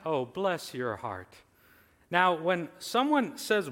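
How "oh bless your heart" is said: slow, drawn-out hint of a Southern accent. Quoting a Southern phrase to the church, light Southern accent. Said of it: "In your southern accent".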